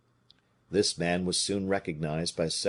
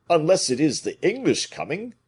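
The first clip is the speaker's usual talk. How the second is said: worried Porthos; 9 semitones higher, 7 dB louder than usual. A narrator's reading.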